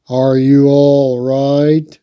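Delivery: worried parents. A narrator's reading. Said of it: "parents came rushing in".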